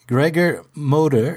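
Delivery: "Gregor Moder" said the English way; English pronunciation. Shown as a demonstration. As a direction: anglicise the name "Gregor Moder". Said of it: "just do it the English way".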